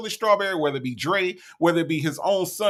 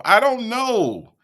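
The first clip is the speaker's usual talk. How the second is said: high, loud, stretched-out words; exasperated bafflement; 5 semitones higher, 5 dB louder, slower than usual. Real, not acted. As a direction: draw it out loudly, baffled. Repeats exasperated bafflement to viewer.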